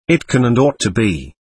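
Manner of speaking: understated emphasis on "ought"; emphatic. A narrator's reading. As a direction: say "ought" with firm, measured weight. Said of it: "Alishaw began emphatically".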